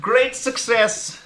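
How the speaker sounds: high, drawn-out victory cry; hammed-up catchphrase, slow and loud; mock triumphant shout.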